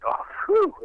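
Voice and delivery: high whistled "whew"; whew of relief. Retold or imitated. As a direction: let out a retold sigh of amazed relief. Retold relief at good luck.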